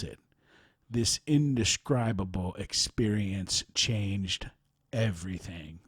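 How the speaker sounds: measured account read aloud. Real, not acted. Host reads a written account of a spiritual teacher, measured narration. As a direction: read a personal testimony clearly, phrase by phrase.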